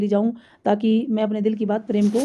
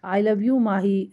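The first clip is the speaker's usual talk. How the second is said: very slow, drawn-out I love you; slow practice confession; much slower than usual. Pretend. Rehearsing alone before a mirror, saying it very slowly. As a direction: stretch each word out as if rehearsing. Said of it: "practice कर लेता हूँ".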